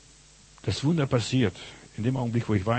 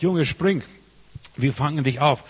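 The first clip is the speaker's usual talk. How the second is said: father calling; 4 semitones higher, 4 dB louder than usual. Retold or imitated. Father calling to his son.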